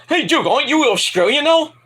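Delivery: high mock student voice; student's question. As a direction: act out a smug student. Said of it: "a student named Marcus says".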